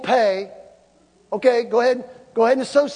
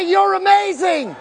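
exultant affirmation; 8 semitones higher than usual. Shown as a demonstration. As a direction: declare it to your neighbour. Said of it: "Look at somebody and say".

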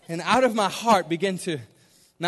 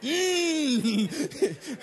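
high, strained closed-mouth "mmm"; mock frustrated hum, lips shut; held-back cussing; 7 semitones higher than usual. Churchgoer holds back a cuss word, mock frustrated hum.

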